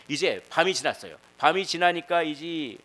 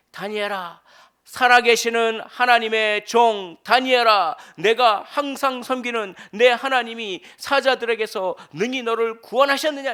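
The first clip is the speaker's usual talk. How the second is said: high, loud, slow anguished calling out; a king wailing into the lions' den; anguished cry; 9 semitones higher, 12 dB louder, slower than usual. Acted. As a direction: cry out in grief to someone in a pit. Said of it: "슬피 소리 질러".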